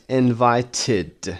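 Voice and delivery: "invited" ending in a full id syllable. Shown as a demonstration. Teacher drilling past forms, "invited" with id ending.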